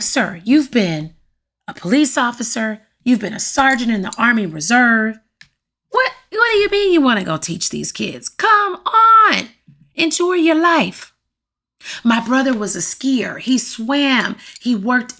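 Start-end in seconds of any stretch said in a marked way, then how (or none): 0.0-11.1 incredulous teasing. Retold or imitated. Challenging brother about going teaching.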